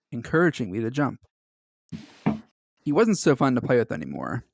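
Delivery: steady storyteller read of a creepy tale; story narration. A narrator's reading. Friend reading the Mister Widemouth story aloud to the other, narrating.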